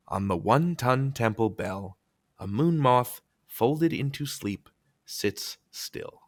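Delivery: measured haiku reading fading to a hush; poem recitation. Shown as a demonstration. Host shares a favorite haiku, hushed recitation.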